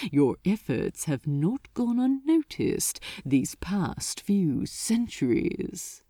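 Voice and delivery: low, calm, condescending demon; gently dismissive. Acted. Asmodeus calmly dismissing Crowley's reasoning as childish. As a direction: brush him off like a child. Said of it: "gently cut through him, as though dismissing ... a child".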